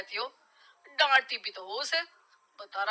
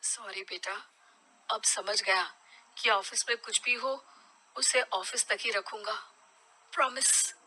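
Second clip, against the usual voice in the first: much softer, gentle apology; sincere apology; 7 dB quieter than usual. Acted. Father apologising softly to his son, sincere. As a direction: make peace with your son.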